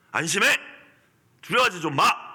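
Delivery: strong command. Retold or imitated. Jesus ordering the frightened disciples, firm command. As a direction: bark it as a stern command. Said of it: "이런 어조라는 거죠".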